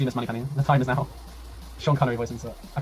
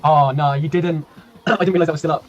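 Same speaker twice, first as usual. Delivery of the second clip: louder, rising oh no of sudden realisation; real dismay; 3 semitones higher, 7 dB louder than usual. Real, not acted. Streamer realising the gamble extension is still on, dismayed. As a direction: catch yourself in horror at a mistake.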